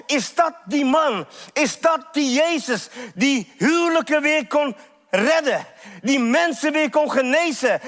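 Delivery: impassioned preaching. Acted. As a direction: preach it with rising urgency. Preacher builds at high intensity.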